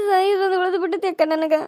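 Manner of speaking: wife telling her friend she wants to die, crying softly; quiet crying. Acted. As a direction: let it sink into a sob. Wife says only death remains.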